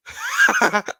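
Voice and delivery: loud high cackle; loud burst of laughter. Real, not acted. Laughing at own joke.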